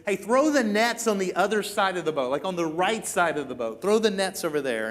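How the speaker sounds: half-yelled instruction from shore; lightly imitating someone calling across water; mild retold yell. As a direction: call back without full shouting. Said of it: "he kinda yells back".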